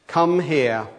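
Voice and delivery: firm commanding parent voice; voice of authority. Shown as a demonstration. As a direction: order the child over. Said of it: "the voice of authority".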